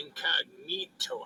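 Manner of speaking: incognito said slowly and breathily, trailing up like unsure; stumbling over a word. Real, not acted. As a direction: sound out incognito haltingly, rising at the end. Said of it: "I can't even say that word".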